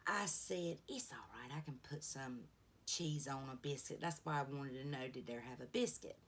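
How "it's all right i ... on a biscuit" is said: soft hushed whisper, much quieter; whispered aside. Retold or imitated. Grandma whispers to the drive-thru lady, hushed and softer. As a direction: keep it under your breath so only she hears.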